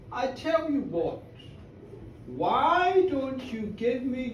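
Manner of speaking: lightly voiced mysterious stranger, slow and measured; tall gentleman.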